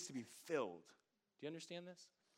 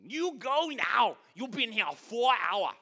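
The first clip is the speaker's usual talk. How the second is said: high, loud put-on Asian accent, the owner shooing him; a buffet owner throws out a customer, mock Asian accent; 9 semitones higher, 15 dB louder, slower than usual. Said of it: "That's what they said".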